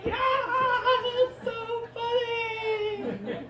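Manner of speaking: very high, slow squeal; hammed-up hysterical delight; mock delighted onlookers. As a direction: squeal it out, stretched and laughing. Europeans delighted by the cliche.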